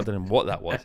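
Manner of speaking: usual speaking voice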